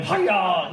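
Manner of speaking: imitating a karate "Hi-ya" lightly; a quick mock karate cry "Hi-ya"; martial arts shout. Mum flooring a lout, mild mock karate cry.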